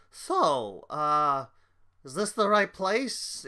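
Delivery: restrained, hesitant asking at normal volume; sobered-up halfling. Acted. Sober halfling checks he found the place, subdued and unsure. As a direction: ask tentatively, all bluster gone. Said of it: "You're now sober".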